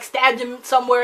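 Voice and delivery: usual speaking voice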